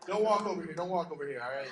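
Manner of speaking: loud warning call across the woods; mock call to the deer. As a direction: shout at the deer to stay away. Calling out to the deer.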